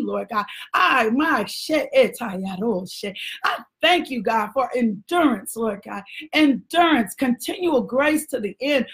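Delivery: rising and falling prayer cadence, calling out Lord God; fervent prayer. Acted. Preacher praying over the congregation, fervent prayer. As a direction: pray over them with building fervour, then hush to murmured thanks.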